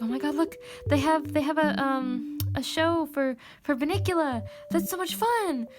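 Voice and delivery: excited. Retold or imitated. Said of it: "I actually got a little excited".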